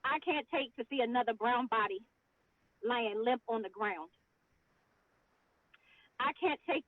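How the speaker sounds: solemn spoken word delivery; spoken word poem. Acted. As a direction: let each line land with weight. Recites her poem.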